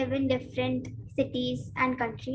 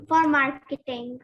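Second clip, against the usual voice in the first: louder, projecting to the judges; speaking up louder; 6 dB louder than usual. Real, not acted. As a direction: raise your voice so the judge hears. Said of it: "Can you speak a bit louder".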